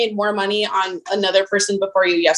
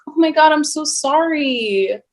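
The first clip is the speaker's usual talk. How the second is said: fake apologetic. Bank teller mock-sweetly apologizing to a rude customer. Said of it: "I have to be like".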